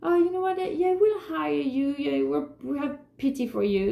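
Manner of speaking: sarcastic imitation of someone hiring her out of pity; mock pitying voice. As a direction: mimic a patronising boss, pitched high. Mocking a pitying employer.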